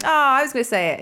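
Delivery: high, disappointed whine; let-down joker. Pretend. Playing the joker whose line got stolen, mock disappointed. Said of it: "He's like".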